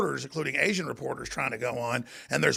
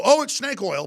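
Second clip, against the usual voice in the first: mock scoff; 8 semitones higher, 5 dB louder than usual. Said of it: "they go".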